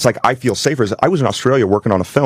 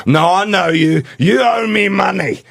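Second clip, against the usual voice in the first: retold yell; 8 semitones higher, slower than usual. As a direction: yell it at him, insistent and slow. Homeless guy insists, getting aggressive.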